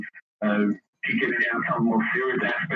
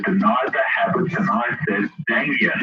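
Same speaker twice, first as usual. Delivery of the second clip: put-on southern accent; 3 semitones lower than usual. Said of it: "so you can hear his southern accent".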